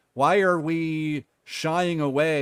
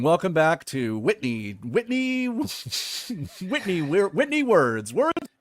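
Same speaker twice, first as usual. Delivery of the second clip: singsong intro; 2 semitones higher, slower than usual. Acted.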